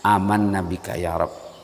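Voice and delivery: soft, slow answer to the verse; humble reply. Shown as a demonstration. Preacher modelling the worshipper's soft reply. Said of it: "patutnya direspon dan dijawab".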